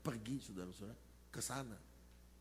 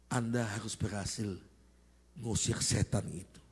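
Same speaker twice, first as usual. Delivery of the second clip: low, louder, menacing command; stern gang-chief order; 5 semitones lower, 7 dB louder than usual. Retold or imitated. Gang chief warning the visiting pastors, low stern command. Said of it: "dia ngomong begini".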